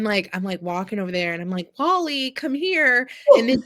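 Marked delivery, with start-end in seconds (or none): 1.8-3.1 a raised call for the cat; light call for the cat. Retold or imitated. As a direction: call him out of the woods. Calling her lost cat.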